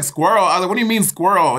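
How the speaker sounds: high incredulous retold question; baffled. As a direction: throw it back, mock bewildered. Retold baffled comeback to instructor.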